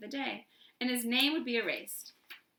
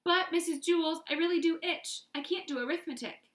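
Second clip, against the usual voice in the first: high whiny plea; whining; 6 semitones higher than usual. A narrator's reading. Dana whining to Missus Jewls, high. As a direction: whine at the teacher. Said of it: "Dana whined".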